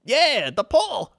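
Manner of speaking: high, loud put-on yell; mock yelling. Retelling a parking lady yelling at a driver, high put-on shout. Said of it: "she's like".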